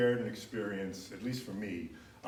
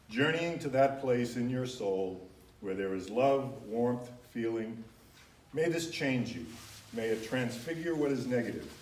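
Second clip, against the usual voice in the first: reading a blessing. Acted. Reads a blessing aloud.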